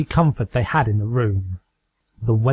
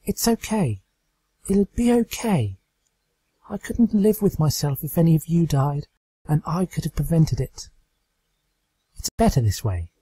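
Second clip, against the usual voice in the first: hesitant comfort; 5 semitones higher than usual. Acted. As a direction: reassure them though scared. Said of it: "once again hesitant".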